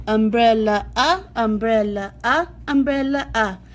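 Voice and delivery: "ah" as the "u" in "umbrella", stressed; short u sound. Shown as a demonstration. Teacher showing kids the short u sound, exaggerated. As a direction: lead with "ah" then "umbrella". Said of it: "And you're gonna say".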